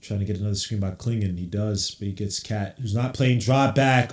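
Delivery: steady running game call; live play-by-play. Acted. Streamer narrating Knicks possessions, running commentary. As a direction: call each pass as it happens.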